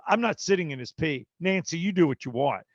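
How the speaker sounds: a touch of indignation, retold; angry father-in-law. Father-in-law refusing to stay in the tub, lightly imitated anger. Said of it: "he's, he's angry".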